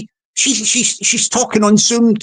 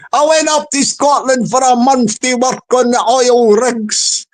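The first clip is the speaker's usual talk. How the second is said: put-on Scottish accent; 2 semitones higher than usual. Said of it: "he came out with an excuse there".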